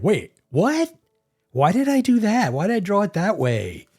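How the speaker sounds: high, startled "wait, what?" at own mistake; mock alarm at a botched drawing; dismayed self-talk. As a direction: catch yourself messing up, half-laughing. Imagined self-critique while streaming.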